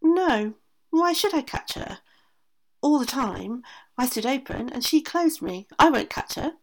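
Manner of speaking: a high indignant door refusing. A narrator's reading. The other door refusing the aunt, high indignant voice. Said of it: "And the other door said".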